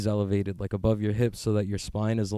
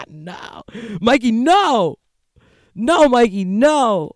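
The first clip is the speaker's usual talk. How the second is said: high, loud mock yell of no; mock panicked yell; 12 semitones higher, 7 dB louder, much slower than usual. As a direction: scream no at him in hammed-up alarm. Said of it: "He's like".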